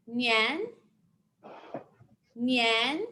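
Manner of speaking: "nian" gliding up like a question; rising tone. Shown as a demonstration. Teacher modelling "like we're asking a question", rising tone. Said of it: "That tone goes up".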